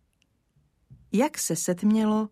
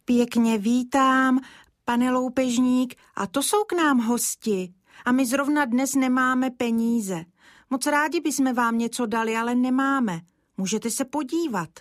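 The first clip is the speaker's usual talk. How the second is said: mild trembling voice; 6 semitones higher than usual. Acted. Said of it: "Třásl se mu trochu hlásek".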